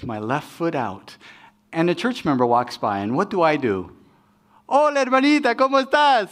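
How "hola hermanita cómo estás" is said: high, bright mock-friendly hello in Spanish; fake sweet greeting. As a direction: switch to a sugary churchy greeting. Sweet greeting to church member while angry.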